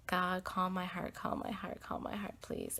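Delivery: fading into a breathy whisper; whispered prayer. Retold or imitated. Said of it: "then I just had to be like".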